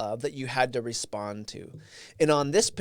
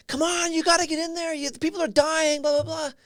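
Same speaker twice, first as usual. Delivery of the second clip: high, strained mock scream; retold scream, pitched way up without full volume. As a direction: imitate a screaming casualty begging for help.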